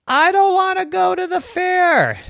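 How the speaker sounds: put-on high, loud child's refusal; loud protest. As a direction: cry it out like an upset kid refusing.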